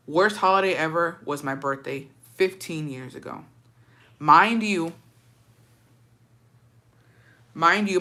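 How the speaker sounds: even, measured storytelling read; story read aloud. A narrator's reading. Streamer reads a follower's holiday story, measured narration. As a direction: read it out plainly like a personal confession.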